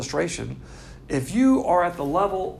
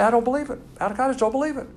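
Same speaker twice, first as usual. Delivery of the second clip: mock doubter; 6 semitones higher, faster than usual. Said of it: "you can say".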